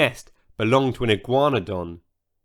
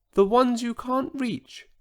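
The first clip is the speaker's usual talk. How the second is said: tiny whispered voice; 10 semitones higher than usual. Acted. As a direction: keep it small and hushed. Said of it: "he whispered".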